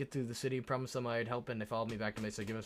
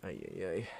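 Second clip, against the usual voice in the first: stretching groan; 7 semitones lower than usual. Real, not acted. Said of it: "I'm just stretching real quick".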